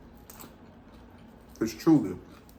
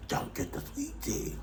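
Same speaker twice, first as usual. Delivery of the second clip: much higher, breathy secret aside; whispered warning; 8 dB quieter than usual. Real, not acted. Vlogger warning viewers off the sweet tea, whispered. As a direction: let them in on a secret, hushed.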